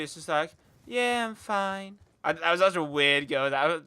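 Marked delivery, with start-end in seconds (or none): 0.9-2.0 slow, unenthusiastic mock answer; uninterested reply. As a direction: imitate someone not really into it. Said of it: "They're not really, like, into it".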